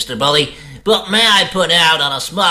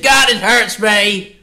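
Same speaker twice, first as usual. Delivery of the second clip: high pained cry, slowed; 5 semitones higher, slower than usual. Acted. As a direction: yelp like you just got hit. Nerd suddenly punched.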